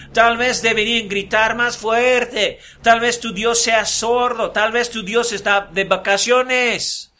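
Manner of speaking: slowed, teasing sarcasm; mocking taunt. Elías mocking prophets whose god stays silent, teasing sarcasm. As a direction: rub it in as you tease them. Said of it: "burlándose de ellos".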